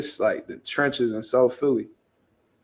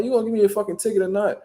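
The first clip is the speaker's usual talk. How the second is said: fast, higher-pitched mock impatience; retold getting heated; 6 semitones higher, faster than usual. Driver demands his ticket from officer, retold impatience. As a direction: rush the demand, mildly worked up. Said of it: "now I'm getting hot".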